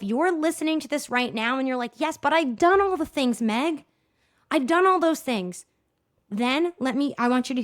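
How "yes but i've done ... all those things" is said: higher-pitched mock objection; imitated protest. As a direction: push back like an imagined frustrated listener. Voicing a protesting listener.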